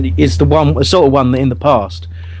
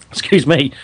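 coughing after wine went down wrong; clearing a choked throat; choking on a drink; 4 semitones higher than usual. Real, not acted. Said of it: "choking on my wine".

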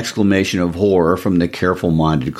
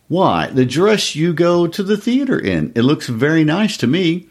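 lightly voiced husband, higher and hopeful; a hint of a proud, hopeful husband; eager husband; 10 semitones higher than usual. Husband coaxes his wife about the invitation, higher and eager.

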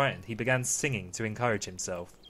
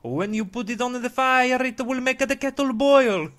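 high, loud story-character voice; carpenter character voice; 11 semitones higher, 6 dB louder than usual. Acted. Carpenter talking to the piece of wood, high loud character voice. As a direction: pitch it way up and project it.

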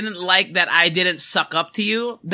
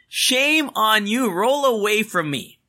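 sing-song shame on you, slow and higher; mocking scold; 4 semitones higher, slower than usual. Real, not acted. Scolding the absent client, slow and higher. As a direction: Shame drawn out slow and high.

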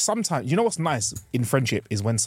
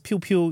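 laser sound effects; 6 semitones higher than usual. Retold or imitated. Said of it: "I like lasers".

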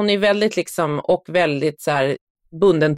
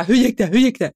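put-on eager child questioning; 5 semitones higher, 3 dB louder than usual. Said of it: "han bara".

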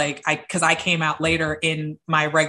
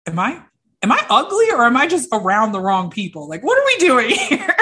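confused, laughing; 4 semitones higher, 5 dB louder than usual. Retold or imitated. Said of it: "all of a sudden I was like".

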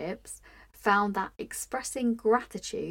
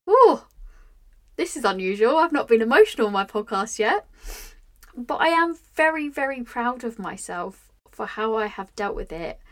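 getting emotional; 6 dB louder than usual. Real, not acted. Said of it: "Ooh, I'm gonna get emotional".

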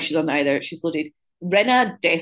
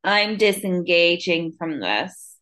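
Meredith; much slower than usual. Retold or imitated. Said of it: "her favourite thing to say is".

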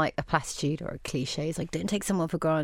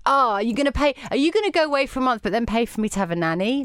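raised, indignant partner's challenge; higher, louder acted complaint; mock indignation; 5 semitones higher, 4 dB louder, faster than usual. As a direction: act out a rushed, exasperated demand. Acted quarrel with partner over childcare.

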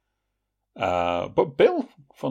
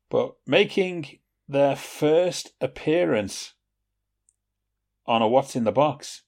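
trailer announcer; 4 semitones higher, 4 dB louder, slower than usual. Acted.

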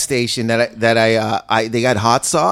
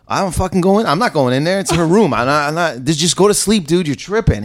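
exasperated refusal; 5 semitones higher than usual. Retold or imitated. Refusing friend's plea in retold argument.

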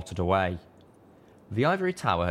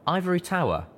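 proclaimed; 11 semitones higher than usual. A narrator's reading. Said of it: "my E F S proclaimed".

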